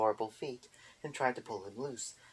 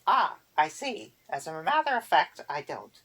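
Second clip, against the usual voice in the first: Erder voice; 4 semitones higher, 7 dB louder than usual. A narrator's reading. Erder answers the boggart, high prim old witch.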